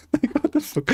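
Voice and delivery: squeaky high laugh through the words; cracking up in disbelief. Real, not acted. Streamer reacting to a funny clip, laughing hard.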